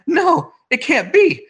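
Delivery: high, slow screwball cry of disbelief; old-timey disbelief. Retold or imitated. Boss seeing dead hooker, old-timey screwball disbelief. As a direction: draw it out, hammy and old-fashioned. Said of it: "he actually says it like that".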